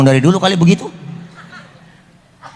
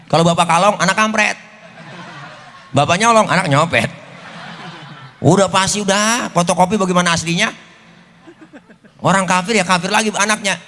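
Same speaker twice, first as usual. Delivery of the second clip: angrier Jibril; 3 semitones higher than usual. Retold or imitated. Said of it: "Jibril tambah marah".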